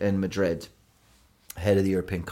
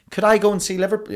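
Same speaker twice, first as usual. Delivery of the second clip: put-on high, louder childhood self pleading; child asking mum; 12 semitones higher, 5 dB louder, faster than usual. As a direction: put on a high-pitched kid begging mum. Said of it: "saying to my mum".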